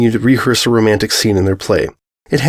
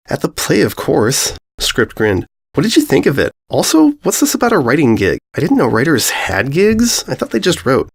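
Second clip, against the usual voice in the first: breezy, higher and carefree; light upbeat boyfriend voice; cheerful stallion voice; 3 semitones higher than usual. Acted.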